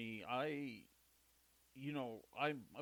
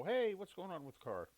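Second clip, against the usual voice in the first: higher, louder mock caller voice; imitating the concierge; 8 semitones higher, 5 dB louder than usual. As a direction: play the eager caller asking about the car. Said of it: "call and go".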